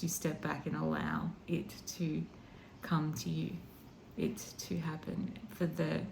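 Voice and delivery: real emotion welling up, softly; emotional. Real, not acted. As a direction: let the feeling come through quietly. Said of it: "And I'm getting emotional".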